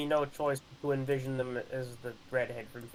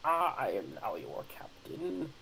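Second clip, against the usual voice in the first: commanding captain. Pretend. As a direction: speak like a ship's captain. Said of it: "You have to say the line".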